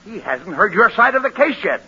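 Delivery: insistent protest. Acted. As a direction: argue over your client's head. Lawyer protests over client.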